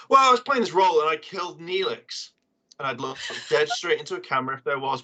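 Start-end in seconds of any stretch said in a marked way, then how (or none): 0.1-2.3 mock interview voice. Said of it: "you immediately go into your voice".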